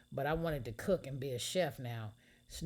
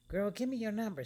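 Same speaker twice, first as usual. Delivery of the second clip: excited; 8 semitones higher, 4 dB louder than usual. Acted. Excited new friend asks.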